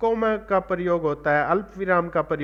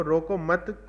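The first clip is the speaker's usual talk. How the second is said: "रोको मत" joined as one softer phrase, ending on a rise; grouped before comma; 5 dB quieter, slower than usual. Shown as a demonstration. Teacher pointing out where the comma falls, "रोको मत" grouped together. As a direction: keep "मत" attached to "रोको", lifting at the comma. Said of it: "comma लगा".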